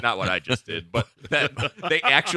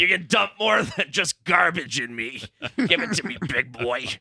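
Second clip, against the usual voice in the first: sexy Oscar the Grouch; 4 semitones higher than usual. Pretend. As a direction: growl it out like a horny grouch. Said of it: "Is that him?".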